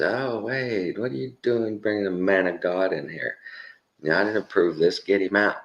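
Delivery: protesting demon. Retold or imitated. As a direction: act out an alarmed demon's protest. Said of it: "the demon jumps up and says".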